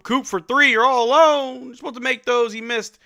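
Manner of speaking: loud, high groan at the miss; real exasperated yell; excited frustration. Real, not acted. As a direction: call out the blown open shot. Open shooter misses.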